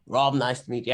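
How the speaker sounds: put-on a slip into the wrong accent for "Rob, nice to meet you". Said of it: "I went wrong accent".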